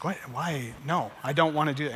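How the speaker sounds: low, softened balking reply; mumbled reluctance, dropping in pitch and volume; reluctant. Acted. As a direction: act out a hesitant, unwilling man. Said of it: "the man's very reluctant".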